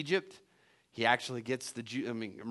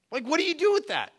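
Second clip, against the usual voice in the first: much higher, pleading repeat; incredulous repeat; 7 dB louder than usual. Shown as a demonstration. Preacher asking the congregation again, higher and incredulous. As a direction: push the question up in disbelief. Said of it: "repeated with rising emphasis".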